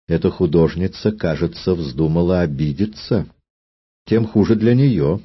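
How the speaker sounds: cold, icy queen voice; icy evil queen. Acted. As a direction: speak it with cold contempt. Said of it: "ледяным тоном молвила королева Артруда".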